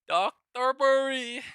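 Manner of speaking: high, loud, drawn-out cry of the name; excited shout. Real, not acted. Trader shouting at a single red candle, high loud cry. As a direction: call the name out in triumph.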